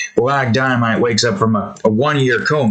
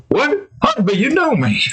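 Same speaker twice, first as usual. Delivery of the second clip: much higher, pleading disbelief; high bewildered pleading; confused Black Dynamite; 12 semitones higher than usual. Retold or imitated. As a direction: plead to be recognised.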